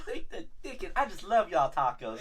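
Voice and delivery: folksy Southern server put-on; lightly hammed-up Southern hospitality; mock Southern accent. Server takes a visitor's order, mock Southern accent.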